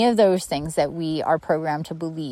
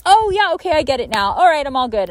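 high, breezy know-it-all voice; airy mock of someone sure they get it; mock naive client; 7 semitones higher, faster than usual. Mimicking clients who think they've got it, breezy and high. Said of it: "they're like".

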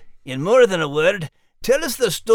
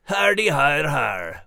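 sarcastic; 6 semitones lower, slower than usual. Acted. Sarcastic reply to a joke.

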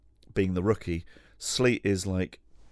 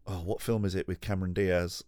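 ordinary talk, nothing marked

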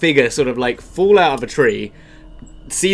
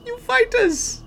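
high, slow, loud tiefling voice; Zoe; 10 semitones higher, 6 dB louder, slower than usual. Acted. Game master greets the party as a tiefling who followed them, high-pitched. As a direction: draw it out in a high, odd character voice. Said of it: "I've gotta get the voice right".

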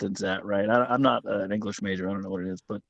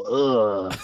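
disgusted ugh; 2 semitones lower than usual. Retold or imitated. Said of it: "I hear my dad talk and I go".

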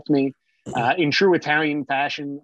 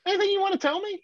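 suspicious dad; faster than usual. Retold or imitated. Dad questioning his son.

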